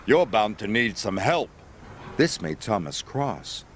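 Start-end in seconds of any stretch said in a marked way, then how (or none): 0.1-1.5 smug. Acted. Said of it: "chuffed Gordon".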